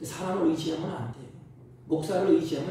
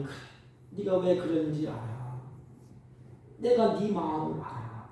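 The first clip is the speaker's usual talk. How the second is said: tender comfort. Retold or imitated. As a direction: reassure a hurting child. God comforting the believer.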